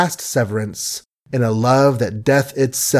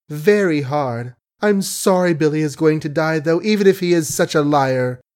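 put-on dazed young woman; 2 semitones higher than usual. Daughter to her father, a dazed rambling complaint. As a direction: drift through it, a little lost. Margaret's voice again.

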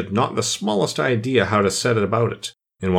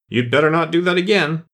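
mild shout; 5 semitones higher than usual. Acted. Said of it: "and shouted out".

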